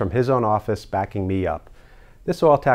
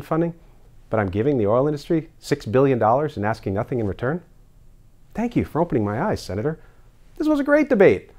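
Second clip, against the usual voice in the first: gushing agreement; 2 semitones higher than usual. Acted. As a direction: overact being won over. Senator plays converted governor, gushing.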